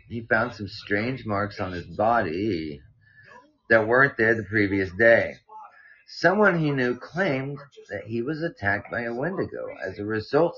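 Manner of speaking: measured read-aloud with lively emphasis; story narration. A narrator's reading. Podcast host reading a listener's mountain scare, story narration. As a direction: read out a spooky tale clearly.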